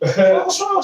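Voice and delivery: high, mock-innocent "what's wrong?"; teasing. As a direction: rub it in after the basket. Teasing her after scoring.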